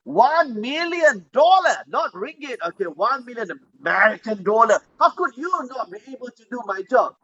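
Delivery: high, indignant complaint; angry customer. Acted. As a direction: scold the robot that failed. Buyer scolds the broken robot.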